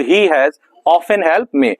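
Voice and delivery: very slow, word by word; slow dictation. Shown as a demonstration. Teacher dictates the English sentence to class, very slowly. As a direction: dictate it slowly for students to write. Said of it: "dictating slowly to class".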